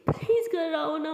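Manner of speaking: slow, high, crying plea; tearful plea. Acted. Rimsha pleads with Aliya to come home, slow and tearful. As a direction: beg through tears, slowly. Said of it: "Rimsha बहुत ज़्यादा रो रही है".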